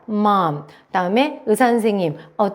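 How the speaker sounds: ordinary talk, nothing marked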